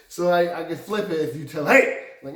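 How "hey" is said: put-on loud, high childish yell; mad little kid. Imitating a frustrated kid, loud mad yell. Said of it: "like a little kid".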